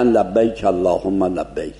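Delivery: لبیک with a narrow vowel between a and e; Arab fatha. Shown as a demonstration. Teacher shows the Arab way of saying لبیک. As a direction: say لبیک and اللهم with the vowel pulled toward e.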